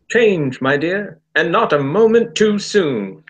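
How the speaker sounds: tentative go at a pompous Doctor; Colin Baker impression. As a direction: announce it grandly. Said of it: "Colin Baker impression".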